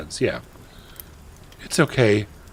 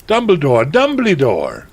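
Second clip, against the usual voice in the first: higher, louder frantic call; yelling out; 6 semitones higher, 7 dB louder than usual. A narrator's reading. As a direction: call for help, stretching the second name. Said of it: "we both yelled".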